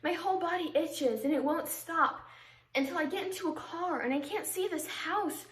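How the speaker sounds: understated, earnest stage monologue; dramatic monologue. Acted. Confessing to someone mad about leaving before the funeral, earnest monologue. Performs a monologue after introduction.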